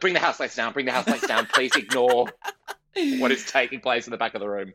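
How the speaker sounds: hurried retreat, pitch back down; quickly covering an awkward moment; embarrassed backpedal. Retold or imitated. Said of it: "And I was like".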